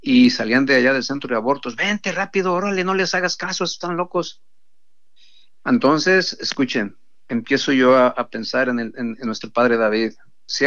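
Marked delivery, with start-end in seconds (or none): 1.8-4.4 high, coaxing call to come inside; mocking clinic workers. Clinic workers calling the girl inside, raised mock coaxing. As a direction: lure her in with a raised, hurried voice.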